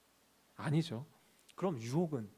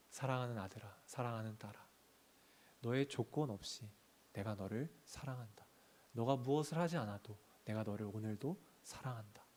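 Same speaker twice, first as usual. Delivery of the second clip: softer, gentle fatherly assurance; God's tender voice; 3 semitones lower, 5 dB quieter than usual. Acted. God tells his children he loves them, tenderly soft.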